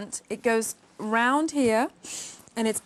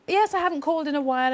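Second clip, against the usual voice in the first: quick, higher retelling of a bubbly caller; 4 semitones higher, faster than usual. Retold or imitated. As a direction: chirp it briskly as the cheery caller. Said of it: "she was, like, really bubbly".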